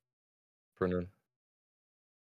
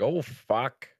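mock Canadian apology with oh and bro; hammed-up Canadian drawl; Canadian accent. Friend imitating a Canadian driver, mock Canadian accent. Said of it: "that's, like, real Canadian shit".

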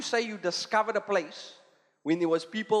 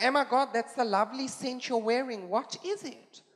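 French; 6 semitones higher than usual. Retold or imitated. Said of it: "They're like".

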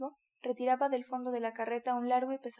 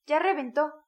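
louder, triumphant yell; gleeful shout; 3 semitones higher, 9 dB louder than usual. A narrator's reading. One of the killers announcing the death, loud yell. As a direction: shout it as the beast dies. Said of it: "gritó uno de los verdugos".

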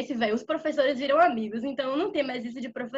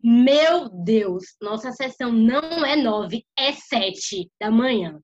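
sudden loud alarmed cry, slowing down at the end; much louder startled exclamation; panicked teacher; 2 semitones lower, 6 dB louder, much slower than usual. Retold or imitated. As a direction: blurt it out in shock as the teacher. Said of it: "olha e fala assim".

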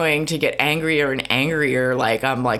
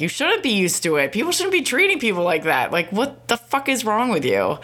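indignant retort; 6 semitones higher than usual. Retold or imitated. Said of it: "but I was like".

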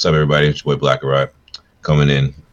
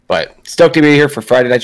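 muffled speech from a sore mouth; 2 semitones higher than usual. Real, not acted. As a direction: talk muffled after the dentist. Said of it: "pardon me if I sound a little, a little muffled today".

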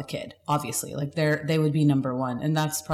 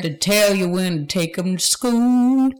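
put-on slow country drawl like an old grandpa; 3 dB louder, slower than usual. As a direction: drag it out like a grandpa singing country. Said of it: "That sounds like an old grandpa".

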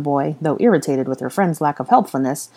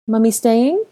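put-on high little-boy question; hopeful small child asking; 7 semitones higher, 5 dB louder, slower than usual. Boy asking if Hermione stays, high child voice. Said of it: "Aurelian asked".

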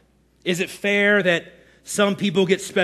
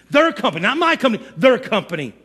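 indignant correction, mildly hammed up; aggrieved employee disowning the company; mock victim; faster than usual. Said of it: "This victim mentality".

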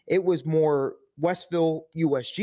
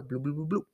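quick burbled "bloo-bloo-bloo-bloo", softer; imitated pouring sound; 4 semitones lower, 7 dB quieter than usual. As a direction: babble softly like liquid being poured. Imitated noise of pouring drink ingredients.

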